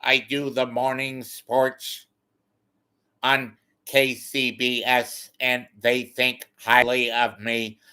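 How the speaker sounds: slow, self-important sports read; lightly voiced sports anchor; sports anchor impression. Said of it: "And then he's not".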